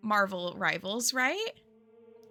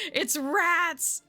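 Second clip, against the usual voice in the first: panicked; 7 semitones higher than usual. Retold or imitated. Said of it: "I was like".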